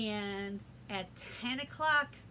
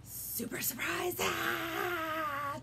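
surprised gasp; 5 semitones higher, much slower than usual. Shown as a demonstration. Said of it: "when you're feeling".

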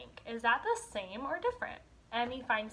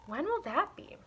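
put-on eager child; 6 semitones higher than usual. Emmy asks impatiently.

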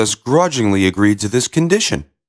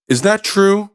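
king voice; 8 semitones higher than usual. Acted. King asks.

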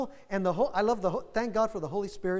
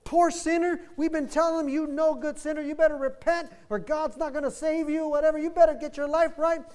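high, loud impassioned outcry; impassioned preacher; 7 semitones higher, 4 dB louder than usual. Retold or imitated. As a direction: cry out the revelation to the church. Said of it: "He says".

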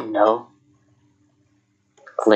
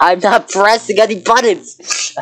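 panicked; 10 semitones higher, 3 dB louder than usual. Real, not acted. Panicked at the mouse moving.

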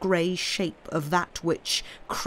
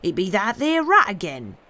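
Job's voice; 3 semitones higher, 5 dB louder than usual. Acted. Job voiced in story.

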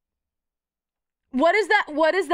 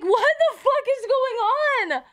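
imitating a hoarse cat meow; 8 semitones higher than usual. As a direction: squeeze it out like a cat with a sore throat. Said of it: "his fucking meow sounds like".

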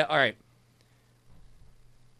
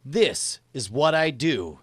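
slow, deliberate dictation; slower than usual. Shown as a demonstration. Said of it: "what I want you to say".

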